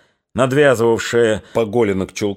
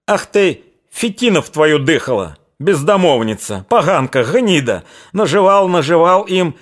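furious yell; 6 semitones higher than usual. A narrator's reading. Old father bellows at his daughter over the livestock, furious yell. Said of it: "оранул".

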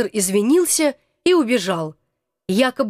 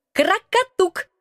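high, restrained creature voice; reserved reply; 8 semitones higher, slower than usual. Acted. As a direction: answer with cool reserve. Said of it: "сдержанно ответил он".

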